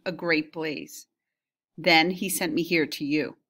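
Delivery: measured reading of an epic passage; story reading. Acted. Teacher reading the Odyssey to her class, storytelling voice.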